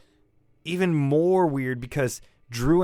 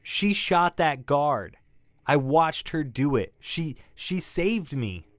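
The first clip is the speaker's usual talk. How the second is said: frustrated insistence. Acted. Witness insists against detective.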